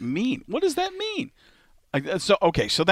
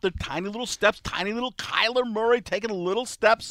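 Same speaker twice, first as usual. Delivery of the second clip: a light Mel Kiper analysis; hint of Mel Kiper breaking down the play; faint Mel Kiper draft talk; Mel Kiper impression; 3 semitones higher than usual. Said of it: "start doing that as Mel Kiper".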